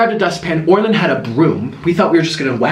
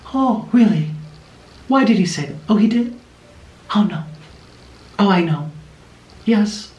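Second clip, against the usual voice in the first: chatty horse talk; 3 semitones higher than usual. Retold or imitated. Lady converses with horse.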